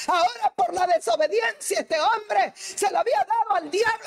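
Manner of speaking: high, ringing, impassioned sermon voice; preaching at full force. Acted. Preacher explaining the cross to the church, at full force. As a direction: preach it out with fire to the congregation.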